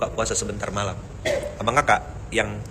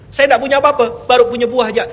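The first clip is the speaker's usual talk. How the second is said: earnest plea; 9 semitones higher, 6 dB louder than usual. Retold or imitated. Imam's humble reply, raised.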